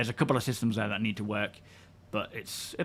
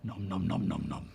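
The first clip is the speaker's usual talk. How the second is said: nom nom chomping; 7 semitones lower, 7 dB quieter than usual. Pretend. Ship munching the wreck.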